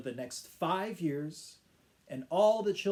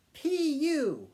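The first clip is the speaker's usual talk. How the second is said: disgusted crowd; 10 semitones higher, 3 dB louder than usual. Acted. Park crowd reacts to smell.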